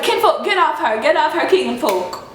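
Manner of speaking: bad put-on Jamaican accent; fake Jamaican accent. Cashier ordering the man off her, fake Jamaican accent. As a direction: imitate a poorly faked Jamaican scolding. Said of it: "She had the worst fake Jamaican accent".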